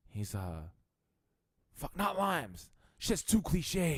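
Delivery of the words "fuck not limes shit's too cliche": high, snobby mock disdain; hammed-up snooty drinker; brash order. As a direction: sneer at the limes, slowly.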